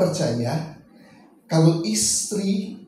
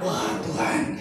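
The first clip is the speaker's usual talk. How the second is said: prayerful worshipper; 6 semitones higher than usual. Pretend.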